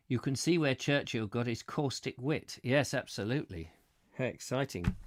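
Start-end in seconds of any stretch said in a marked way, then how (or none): none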